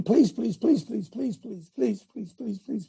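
mock pleading please, fading; mock begging. Preacher mocking believers begging Jesus. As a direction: beg it mockingly over and over. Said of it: "We have to beg him".

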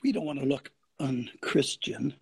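low, soft mock-meek voice; timid Christian. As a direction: say it meekly, as a worried believer. Mocks timid Christians avoiding offence.

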